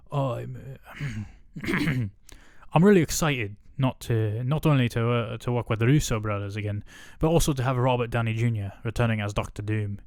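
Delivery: put-on a rough, self-admittedly terrible British accent; Benedict Cumberbatch accent. Reading the actor's quote in a bad British accent. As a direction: put on a clumsy posh English accent. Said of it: "a Benedict Cumberbatch accent".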